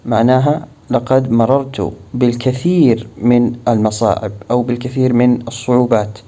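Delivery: ordinary talk, nothing marked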